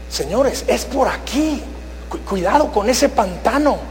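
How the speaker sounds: lightly voiced guide calling the flock; mock shepherd leading. Shepherd calls his sheep to follow, mild guiding call. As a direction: beckon them along, half-hearted.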